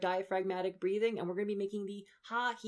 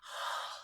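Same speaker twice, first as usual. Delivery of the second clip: breathy ha; 7 dB quieter than usual. Shown as a demonstration. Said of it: "doing our breathy voice".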